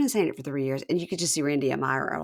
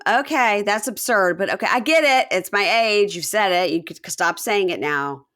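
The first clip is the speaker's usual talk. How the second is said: higher, louder fed-up reply; exasperated retort; 4 semitones higher, 7 dB louder than usual. Retold or imitated. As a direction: tell them to drop it, exasperated. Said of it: "And Jen's like".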